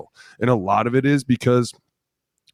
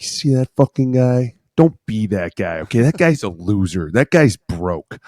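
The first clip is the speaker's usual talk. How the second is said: put-on old-timer's warning; 4 dB louder, slower than usual. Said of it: "all the old guys be like".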